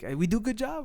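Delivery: lightly voiced friendly workman seeking approval; older worker.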